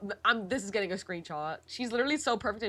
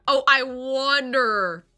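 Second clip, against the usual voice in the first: theatrical musing; 3 semitones higher, 7 dB louder, much slower than usual. Acted. Voicing character musing.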